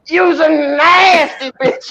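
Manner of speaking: high, slow, drawn-out yell after her; mock yell, laughing through it; parting shout. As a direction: call it across the park as she runs. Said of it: "he's like".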